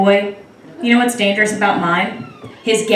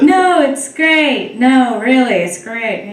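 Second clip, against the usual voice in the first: fake orgasm; 2 semitones higher, slower than usual. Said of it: "I can't even fake an orgasm".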